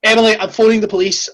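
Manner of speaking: a hint of a mum's warning. Mum warning Emily off her steps, lightly imitated. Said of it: "That is a mum".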